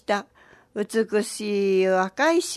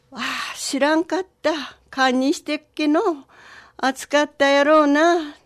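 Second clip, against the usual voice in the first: lightly voiced old man apologizing, higher; mild pained sympathy, growing louder at the end; sorry old man; 4 semitones higher, 4 dB louder than usual. Old man apologizes to scorched snake.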